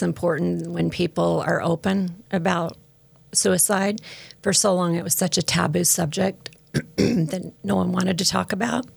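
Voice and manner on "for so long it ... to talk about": throaty, catching voice with a frog; talking through a frog in the throat. Real, not acted. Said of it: "I have a frog".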